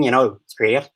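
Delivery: Northern Irish with a mistaken vowel in "know"; Northern Irish accent, slightly off. Shown as a demonstration. Rounding off the demo, imperfect Northern Irish accent. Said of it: "I got the no wrong that".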